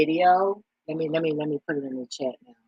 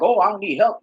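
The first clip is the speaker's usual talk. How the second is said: higher and louder mock self-reliance; mocking proud person; 6 semitones higher, 6 dB louder than usual. Mocking people who refuse help, higher and louder. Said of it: "I'm not one of people like".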